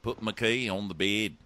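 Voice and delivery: mock New Zealand accent coaching; steady put-on New Zealand vowels. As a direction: say it as a Kiwi demonstrating his accent. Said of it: "Let's work on that".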